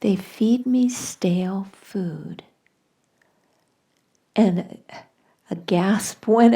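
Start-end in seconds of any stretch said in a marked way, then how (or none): 0.0-2.4 slow, composed, matter-of-fact delivery; very calm reply. Retold or imitated. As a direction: state it slowly and very calmly. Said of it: "by saying very calmly".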